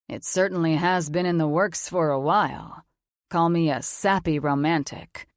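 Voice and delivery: a mature man, calm and sure of himself; authoritative confident man. Acted. Logan voiced as man.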